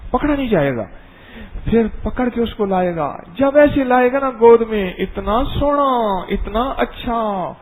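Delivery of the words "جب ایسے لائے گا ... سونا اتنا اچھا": tender cooing. Acted. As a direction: coo over the lamb in your arms. Preacher cooing over a lamb.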